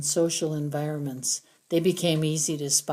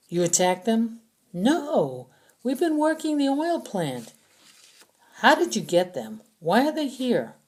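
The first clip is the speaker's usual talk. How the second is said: accusing prisoner; 6 semitones higher, 3 dB louder than usual. A narrator's reading. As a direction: drag out the accusation. Prisoner explains captives.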